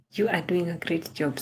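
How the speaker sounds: hushed whispered encouragement. Acted. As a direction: whisper it like a secret compliment. Encouraging a viewer on stream.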